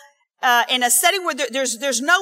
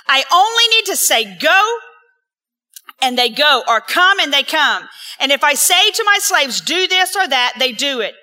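building preaching; 3 semitones higher, 6 dB louder than usual. Real, not acted. Preaching climax reading scripture.

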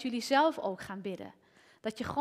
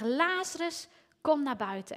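Lazarus raised high, but only a little louder; a lighter retelling of the call; mild calling out; 3 semitones higher, 3 dB louder than usual. Retold or imitated. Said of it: "Dus hij moest schreeuwen".

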